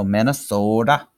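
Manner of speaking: put-on a light try at a Minnesota accent. Teacher playfully trying the locals' speech, light Minnesota accent. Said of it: "Kinda like what their accent sounds like".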